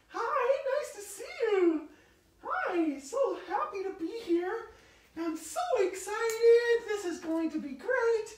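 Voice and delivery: high-voiced excited guest greeting the crowd; excited stage persona. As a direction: play a breathless starlet arriving. New character arrives on stage.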